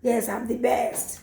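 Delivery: slow, pleased mock wife; smug wife. Preacher imitating a praised wife, slow and pleased. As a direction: savour the praise like a flattered wife. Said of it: "See her head say".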